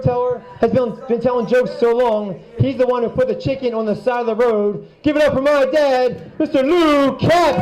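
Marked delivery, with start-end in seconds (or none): 5.0-7.6 raised, stretched-out announcer call; host introduction. Real, not acted. Host bringing his dad on as first joke teller, announcer call. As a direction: call the act up to the stage.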